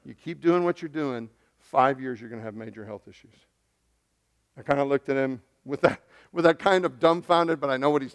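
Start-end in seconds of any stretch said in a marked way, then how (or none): 0.1-3.3 softer, lower, gently delivered warning; gentle doctor. Retold or imitated. Doctor calmly warning his patient about his health, gently. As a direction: say it gently, dropping low at the end. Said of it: "sat there gently and said".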